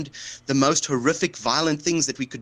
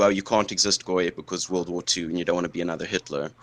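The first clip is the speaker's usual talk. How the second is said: mocking quote; 5 semitones lower than usual. Mocking the opponent's imagined argument.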